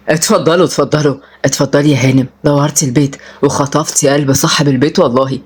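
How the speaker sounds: lightly voiced old charmer ushering guests in; smitten grandfather, welcoming. (جدّ مرحّب ومعاكس)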